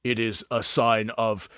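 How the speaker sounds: a hulking orc sizing them up; big orc Mountain. Acted.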